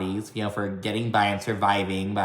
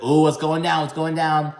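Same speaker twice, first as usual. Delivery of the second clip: higher, mock-excited onlooker; nosy excitement; 4 semitones higher than usual. Castmate watching the argument from the van, mock-excited. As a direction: lightly imitate an eager spectator to a fight.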